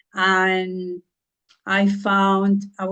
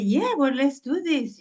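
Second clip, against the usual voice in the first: excited yes; 6 semitones higher than usual. Retold or imitated. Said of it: "I was so excited".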